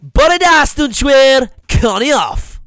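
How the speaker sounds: shouted cheery hello; loud greeting. Retold or imitated. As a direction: boom it at the kids.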